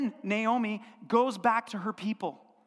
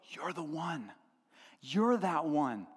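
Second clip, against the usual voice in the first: admiring Boaz; 6 semitones lower, 5 dB quieter, slower than usual. Retold or imitated. Boaz voiced admiring Ruth.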